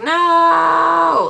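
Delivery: high defiant shout of no; kid yelling no. Retold or imitated. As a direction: yell it like a stubborn kid refusing. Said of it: "he's like".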